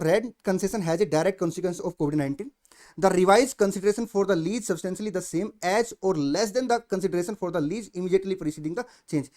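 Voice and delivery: reading the standard's clause out word by word, very slowly; slow formal reading. Acted. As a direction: dictate the text slowly so students can follow. Reading the standard text aloud. (धीरे-धीरे औपचारिक पाठ पढ़ना)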